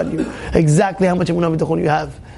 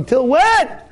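higher, pressing question; raised challenge; 9 semitones higher than usual. Acted. Rabbi pressing the worried listener, raised challenge. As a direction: push the listener a notch.

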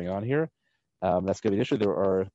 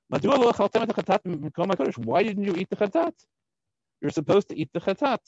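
high-pitched indignant demand; angry rebuke; 8 semitones higher than usual. Acted. Moshe confronting Aaron's remaining sons over the uneaten offering, angry rebuke. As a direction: scold them in a raised pitch. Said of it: "expresses anger".

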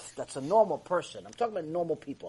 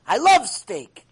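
louder, slower, savoring love; hammed-up steak lover gushing; slow swooning "I love steak"; 4 semitones higher, 10 dB louder, slower than usual. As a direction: drag out "love" like you crave it. Mimicking the steak lover, repeated.

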